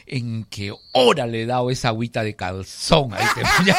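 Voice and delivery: put-on girl's line said through laughter; laughing quote. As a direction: barely hold back the giggles. Girl quoted while host laughs. (la chica riendo al hablar)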